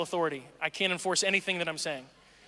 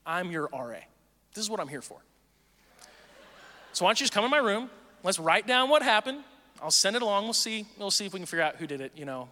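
fake soothing RA. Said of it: "And I go".

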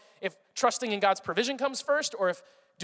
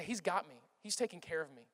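soft, lower, trusting murmur; quiet assurance; 4 semitones lower, 11 dB quieter than usual. Acted. Believer telling self God provides, quietly assured. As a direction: say it softly, as settled trust.

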